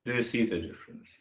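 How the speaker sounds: a soft, inward repeat of the question. Shown as a demonstration. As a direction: drop the volume and let it sink in. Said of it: "Let me repeat it again".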